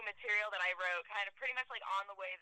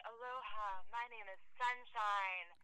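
softer, drawn-out hippie greeting; mock hippie introduction; 3 dB quieter, slower than usual. Comic retelling how hippies introduce themselves, lightly mocking slow voice. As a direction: introduce yourself slowly, lightly imitating a spiritual hippie. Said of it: "And they say".

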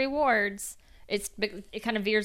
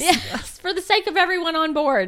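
emphatic, louder and higher; 7 semitones higher, 6 dB louder than usual. Real, not acted. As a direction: agree with full emphasis.

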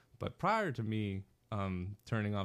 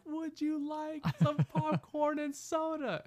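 mock shout; slower than usual. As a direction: shout it slowly across a theater. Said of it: "I just kinda shout".

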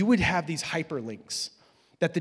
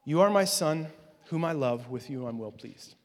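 tender, fading. Shown as a demonstration. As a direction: say it gently like a father to his son. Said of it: "It says three things".

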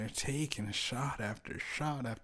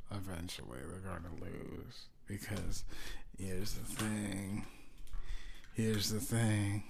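slow ominous emphasis; 3 semitones lower, 6 dB quieter than usual. Real, not acted.

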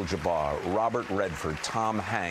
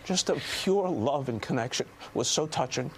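choked up; 5 semitones higher than usual. Real, not acted. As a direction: voice catching with emotion. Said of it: "now I'm getting emotional".

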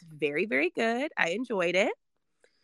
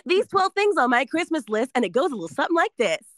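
upbeat, fast ad announcer; Kohl's commercial read; 4 semitones higher than usual. Shown as a demonstration. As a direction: sell it like a holiday TV ad. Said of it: "I'm giving you Kohl's commercial".

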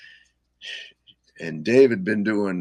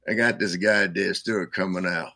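Tom's voice. Retold or imitated. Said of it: "I think you did his voice really well".

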